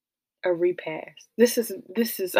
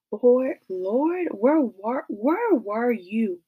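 pleading cry of Where were you; angry prayer; 4 semitones higher, much slower than usual. Acted. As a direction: demand it of God, voice raised. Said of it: "My Saint Louis coming out".

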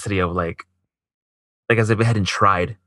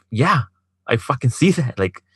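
higher-pitched, exasperated retort; exasperated insistence; 5 semitones higher than usual. Retold or imitated. Man retelling his demand that she decide, exasperated. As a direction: push back, fed up, in retelling.

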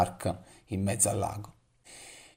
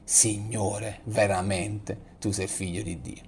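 much softer, slower, prayerful; in adoration; 8 dB quieter, slower than usual. Shown as a demonstration. Pastor leads the congregation in adoration, soft prayer. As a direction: breathe it out as a quiet act of worship. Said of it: "potendo dire anche noi in adorazione".

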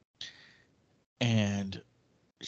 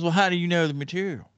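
quoting her; 8 semitones higher, 5 dB louder, faster than usual. Retold or imitated. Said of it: "She goes".

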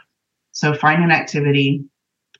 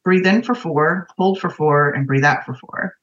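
slow breath counting. Shown as a demonstration. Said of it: "do it with us for just a minute".

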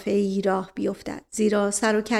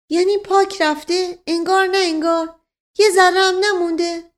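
much higher, louder disbelief; astonished questioning; 9 semitones higher, 6 dB louder than usual. A narrator's reading. Servant questions his wounded townsman, astonished. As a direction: press him in stunned, high-pitched surprise.

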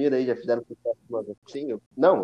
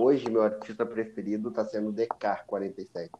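glitchy robotic audio; choppy, stuttering digital voice; half robot voice. Real, not acted. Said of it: "o Gleice tá com uma voz de robô". (voz robótica travando)

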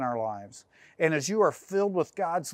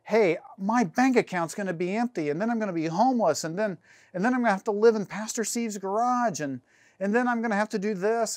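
mock anxious worrying; 4 semitones higher, faster than usual. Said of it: "this doom and gloom feeling".

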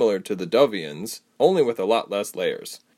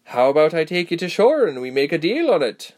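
put-on grinning young man; 8 semitones higher, 4 dB louder than usual. A narrator's reading. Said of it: "he asked with a little grin".

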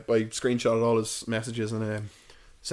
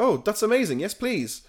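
delighted; 11 semitones higher, 4 dB louder than usual. Retold or imitated. Company delighted at free offer.

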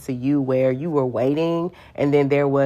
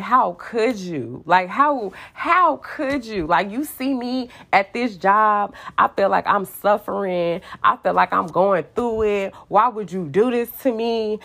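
retold mad outburst; 5 semitones higher than usual. Woman confronting God over lost job, retold anger. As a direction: act out being mad, without shouting. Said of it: "I was so mad because I'm like".

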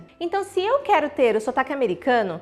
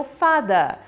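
British accent; much slower than usual. Shown as a demonstration. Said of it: "Então esse E R vai ser a".

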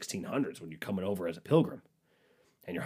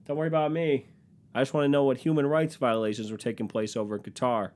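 sarcastic; 3 semitones higher than usual. Retold or imitated. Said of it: "I'm like".

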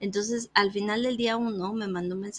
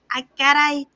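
mock surprise; 5 semitones higher, 9 dB louder than usual. Quoting surprised reply.

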